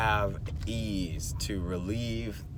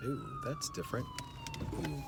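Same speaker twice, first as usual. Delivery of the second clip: surprised squeal; 9 dB quieter than usual. Real, not acted. Startled by something behind her.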